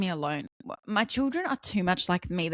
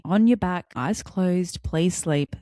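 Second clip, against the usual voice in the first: mock stern mum at bedtime; lightly voiced telling-off, pitched down; 2 semitones lower, 3 dB louder, much slower than usual. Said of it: "she's telling off her toddler".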